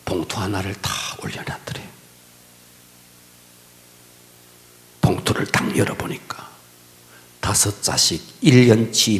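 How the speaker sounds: low, soft, half-whispered telling; hushed sermon storytelling. Acted. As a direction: draw them in with a hush. (낮고 조용히 속삭이는 설교)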